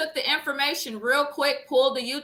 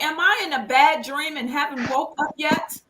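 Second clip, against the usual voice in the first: disbelieving; 5 semitones higher than usual. Retold or imitated. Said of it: "I was perturbed by it".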